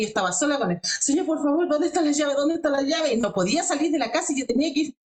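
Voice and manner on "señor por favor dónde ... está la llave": retold frantic plea. Frantic plea searching lost keys.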